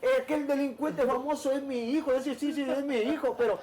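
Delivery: a hint of mom lecturing her son, amused; voicing his mother. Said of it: "mi mamá siempre me decía".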